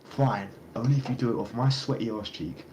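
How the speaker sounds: snapping back. Retold or imitated. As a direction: play the boss finally giving in with a snap. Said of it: "he finally snapped".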